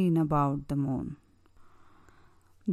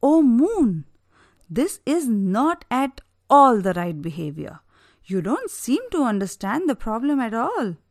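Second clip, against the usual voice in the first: louder, cursing angry king; furious king; 4 semitones higher, 5 dB louder than usual. Acted. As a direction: lay the curse in anger. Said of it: "This time Daksha was furious".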